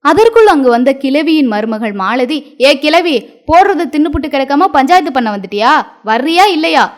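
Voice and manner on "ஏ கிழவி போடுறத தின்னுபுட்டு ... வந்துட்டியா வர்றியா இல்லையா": mild mock threat; threatening. Daughter-in-law ordering the grandmother home, mild threat. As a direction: scold the old woman home, a touch higher. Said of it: "என மிரட்டவே".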